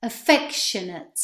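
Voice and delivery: Affectionate ending in a weak "ət"; Affectionate with final "ate" reduced to "ət". Shown as a demonstration. Teacher repeating Affectionate for students, weak final syllable. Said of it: "and the A T E ending".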